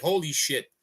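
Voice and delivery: imagined onlooker's mild, awed exclamation; amazed onlooker. Pretend. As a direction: gush like someone who just saw something incredible. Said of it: "inspire them to feel like".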